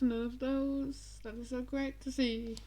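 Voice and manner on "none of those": slow and drawn out. Real, not acted. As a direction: stretch none out slowly.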